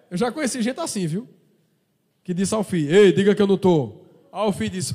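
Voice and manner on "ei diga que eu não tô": loud hushed order. Retold or imitated. Parent telling son to lie.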